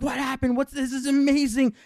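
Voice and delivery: very high, loud excited shouting; squealing kids' astonishment; amazed uproar. Retold or imitated. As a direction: burst out like a whole class erupting. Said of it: "everyone erupts".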